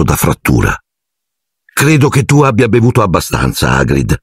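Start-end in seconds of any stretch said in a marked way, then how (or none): 1.6-4.2 higher, firm and decided. A narrator's reading. Hermione to drunk Hagrid, firm and decided. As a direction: set the limit kindly but firmly. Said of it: "in tono deciso".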